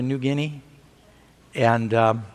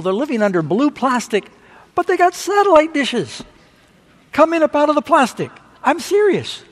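rising excitement; 8 semitones higher, 4 dB louder than usual. Real, not acted. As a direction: voice climbs high and loud with wonder. Excited preacher on gospel spreading.

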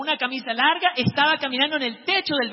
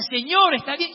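high, raised call; acted calling out; 5 semitones higher, 5 dB louder than usual. Student shouting to check on the fallen man, acted call. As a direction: call over the wall to someone hurt. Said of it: "empiezo a gritar".

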